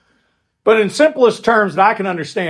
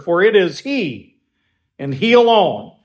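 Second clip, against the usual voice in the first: he in "For it is he, and he alone" weighted, the line pushed a little higher; stress on he; 3 semitones higher than usual. Shown as a demonstration. Pastor explaining to his flock that it is he alone, pressing on he. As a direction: lean on he both times. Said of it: "the emphasis of the clause is on that word".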